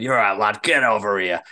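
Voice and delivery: lightly imitated Rotherham accent. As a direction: quote him with a touch of broad Yorkshire. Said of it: "his accent just kind of was that infectious".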